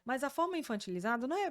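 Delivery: usual speaking voice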